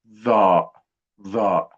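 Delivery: heavy interdental TH in "ظاء"; tongue between teeth. Shown as a demonstration. Teacher models the third letter, heavy tongue-between-teeth sound in ظاء. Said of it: "التلاتة دول لازم نستخدم لساننا".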